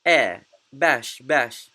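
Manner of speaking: "air" vowel alone, then "bash" twice; "air, bash, bash" as a careful vowel model; vowel demo. Shown as a demonstration. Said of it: "the middle one over here is".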